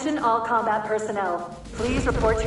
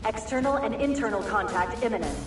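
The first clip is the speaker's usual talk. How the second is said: factory pa. Acted. Ship intercom announcement.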